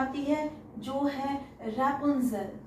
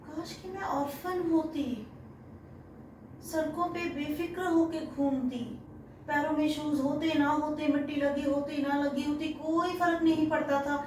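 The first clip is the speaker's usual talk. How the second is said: Amanda's wish; 5 semitones higher than usual. Retold or imitated. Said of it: "वो सोचती है".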